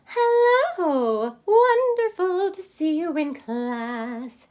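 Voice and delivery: high, loud, bright bird greeting; cheerful bird voice; chirped. Acted. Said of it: "she chirped".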